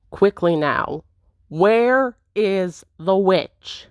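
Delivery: slow, pressing rogue demand. Acted. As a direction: press for the answer slowly. Intruder demands the witch.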